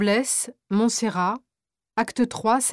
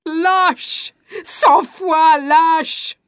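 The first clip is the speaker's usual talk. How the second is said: louder, slow, bitter accusation; 3 dB louder, much slower than usual. Acted. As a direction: spit out the insult slowly. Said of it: "La mère folle de désespoir".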